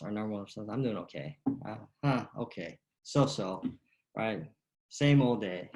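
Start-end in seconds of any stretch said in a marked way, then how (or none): 0.7-3.6 dull, flat "okay". Retold or imitated. Golf coach imitating a bored everyday reply. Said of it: "what's our normal response". 4.9-5.7 put-on "Same old day" tossed off as a lazy sigh; mock weary reply. Coach mocks the usual tired answer. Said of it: "what's our normal response".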